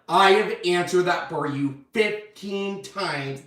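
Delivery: slow, emphatic word by word; labored, deliberate retort; exasperated. Retold or imitated. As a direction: imitate a husband at the end of his patience. Weary husband retold, counting repeats.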